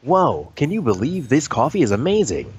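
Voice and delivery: mock ad-read cheer, pitched a bit up; cheesy ad voice. Friend mocking a canned commercial voice, cheesy. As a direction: sell the coffee like a canned commercial. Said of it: "why do you sound so cheesy".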